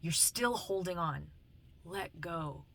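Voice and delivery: softly repeated movie quote; quiet, measured counsel; gentle spiritual message. Retold or imitated. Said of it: "speaks to me in, um, song lyrics".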